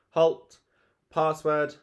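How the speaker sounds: high, loud sentry challenge; guard's shout. Acted. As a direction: bark it like a fort guard. Peter guarding the fort.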